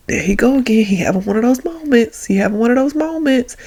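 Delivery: mock teasing. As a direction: imitate kids ribbing their sentimental dad. Kids mocking dad's moment, retold.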